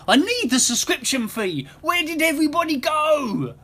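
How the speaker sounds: very high-pitched wail; screamed plea. A narrator's reading. Scrooge dragged away, wailing for his subscribers, screaming. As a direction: wail it desperately, climbing to the end. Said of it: "screamed Scrooge".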